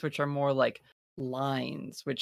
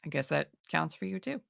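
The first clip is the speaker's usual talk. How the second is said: understated sincere character; 3 semitones higher, faster than usual. Acted.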